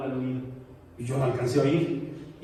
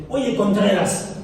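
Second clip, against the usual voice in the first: slow, drawn-out Oye, Contreras with the stress on Oye and a falling end; mildly imitating a cross wife, slow and a bit louder; annoyed wife; 4 semitones higher, 3 dB louder, much slower than usual. Pastor imitates his annoyed wife calling him by surname. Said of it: "me dice así cuando está enojada".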